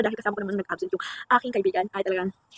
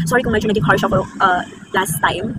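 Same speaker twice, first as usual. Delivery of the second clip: soft apology; 2 semitones lower, slower than usual. Pretend. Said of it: "Ito yung sasabihin ba?".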